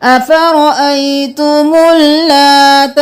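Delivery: slow, chanted tajweed recitation; Quranic recitation. Shown as a demonstration. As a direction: chant it slowly, stretching the vowels. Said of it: "यहाँ पर अलिफ और इस्लाम को नहीं पढ़ेंगे".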